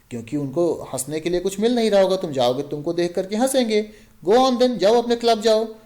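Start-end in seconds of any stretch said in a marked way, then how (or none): 4.3-5.7 higher, louder mocking push; taunting. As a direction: shoo him off with scorn. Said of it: "उसको taunt करते हुए".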